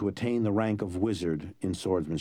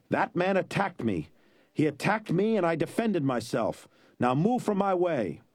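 higher, haughty lying noble; arrogant nobleman; 7 semitones higher than usual. A narrator's reading. Nobleman lying to the village crowd, higher and haughty. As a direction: brush the villagers aside.

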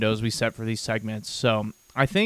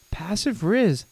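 high, singsong taunt; playful teasing; 8 semitones higher, slower than usual. Pretend. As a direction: draw it out in high teasing swoops. Teasing Steve in high swoops.

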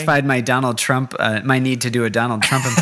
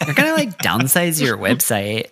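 put-on valley girl voice. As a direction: stretch downsize like a valley girl. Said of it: "Say that like a valley girl".

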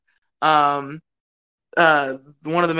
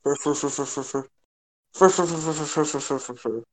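giggly babble; 5 dB quieter than usual. Real, not acted. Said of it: "I lost my shit for a second".

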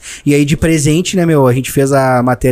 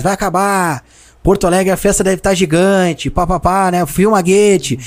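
higher, lightly imitated TV commentator call; Galvão narrating; 5 semitones higher, slower than usual. Imitating Galvão calling the final minutes. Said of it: "O Galvão narrando os minutos finais".

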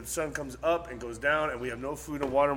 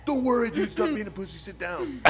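higher-pitched, brushing off the worry; dismissive friend; 7 semitones higher than usual. Retold or imitated. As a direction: wave away a nervous friend's fears. Friend brushes off his worries.

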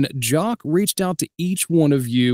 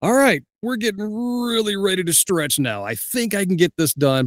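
overwhelmed pep talk; 7 semitones higher than usual. Retold or imitated. Retold nervous pep talk, eyes huge.

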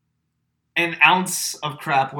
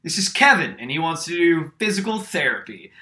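loud, higher, sure of himself though wrong; confident announcing; 3 semitones higher, 4 dB louder than usual. Retold or imitated. Classmate introducing John as Kevin, loudly confident. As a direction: present the wrong name with total confidence. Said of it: "Colin stands up and goes".

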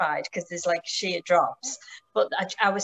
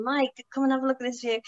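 enthusiastic; 5 semitones higher, faster than usual. Retold or imitated. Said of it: "Martin was being really enthusiastic".

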